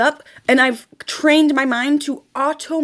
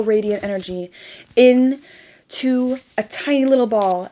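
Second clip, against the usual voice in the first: dreamy manifestation guide; guided visualization; 2 semitones lower than usual. Acted. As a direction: ease them into the exercise, gently.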